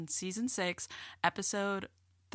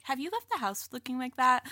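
snippy sister; 5 semitones higher, 5 dB louder than usual. Retold or imitated. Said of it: "Or, like".

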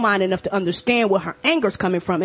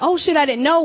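higher, startled mock realisation; 8 semitones higher than usual. A speaker who offended someone, caught out in mock shock. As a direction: feign a sudden shocked oops. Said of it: "and you're like".

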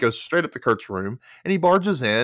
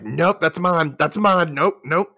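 higher, possessive retold objection; mock pissed off; 5 semitones higher, 3 dB louder, slower than usual. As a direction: stake a claim in mock annoyance. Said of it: "she's getting pissed".

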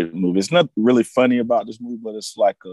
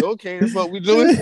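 quoting Randy Quaid; 9 semitones higher than usual. Retold or imitated.

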